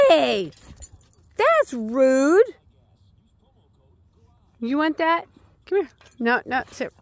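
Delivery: barked order. Real, not acted. Scolding dog sharply.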